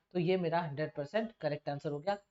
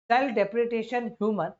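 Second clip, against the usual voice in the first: slow reading aloud; 4 dB louder, much slower than usual. Shown as a demonstration. Teacher reads option aloud.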